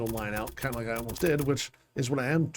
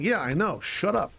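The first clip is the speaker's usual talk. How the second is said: higher-pitched, mock-exasperated comeback; irritated retort; 5 semitones higher than usual. Gamer answering his own brain, exasperated mock retort. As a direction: snap back at your own nagging brain. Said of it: "And I'm like".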